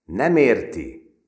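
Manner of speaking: loud, slow explanation; slow explanatory remark; explaining aside. A narrator's reading. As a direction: explain to the onlookers. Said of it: "szólt magyarázólag".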